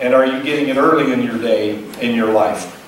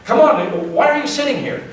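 much higher, half-comic demanding voice; mock exasperated question; 9 semitones higher than usual. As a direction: play the impatient traveler, pitched way up. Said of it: "he says".

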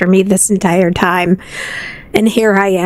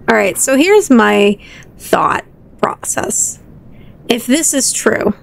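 whisper. Acted. Whispered inner thought.

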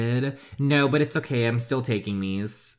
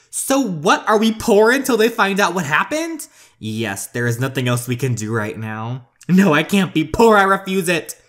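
much higher, louder alarm; panicked; 6 semitones higher, 6 dB louder than usual. Acted. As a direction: shriek at being poor. Bella hears accounts frozen.

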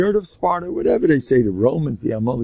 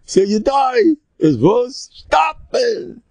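high, louder, imitated brush-off; raised-voice "so what" attitude; dismissive outburst; 12 semitones higher, 4 dB louder, slower than usual. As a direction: throw it out in mock exasperation. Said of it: "I go like the Arabs".

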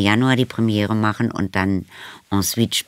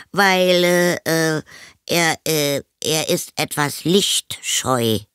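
put-on high, hesitant boy voice; flustered boy; 7 semitones higher, slower than usual. A narrator's reading. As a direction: grope for an excuse, stammering. Boy inventing excuse for hidden friend. (stockende, hohe Jungenstimme)

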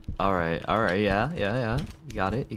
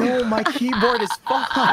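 slow laughing lament; laughing at the mess; 4 semitones higher than usual. Real, not acted. Spat water on keyboard.

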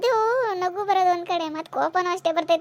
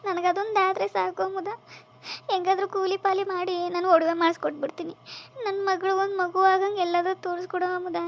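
tearful pleading. Acted. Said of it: "ಅಳ್ಬೇಡ ಅತ್ತೆ".

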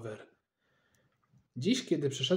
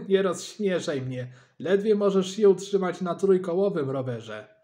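louder, higher scornful jab; mocking taunt; 5 semitones higher, 7 dB louder than usual. A narrator's reading. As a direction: rub it in with scorn. Dad mocks neighbour, laughing.

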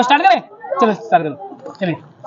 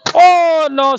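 sudden louder, higher groan; dismayed oh no; 5 semitones higher, 4 dB louder than usual. Real, not acted. Host watching a flip fail, dismayed. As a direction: react to a miss.

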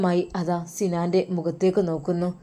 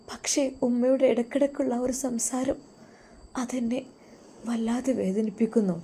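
wife telling her husband how his mother's words hurt her; tearful wife; 3 semitones higher, 5 dB quieter than usual. Acted. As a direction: confess the hurt, holding back tears.

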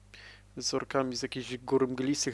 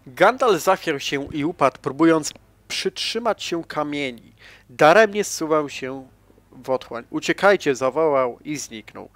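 louder, epic storyteller voice, playing it up; dramatic retelling; 5 dB louder than usual. Gamer retells Gandalf's fall on the bridge, epic narration. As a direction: tell the fall like a film trailer.

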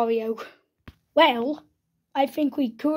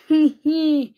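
short, loud mock-evil giggle; play-acted villain laugh; villain chuckle; 2 semitones higher, 5 dB louder than usual. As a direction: gloat with a little laugh. Villain corners the hero.

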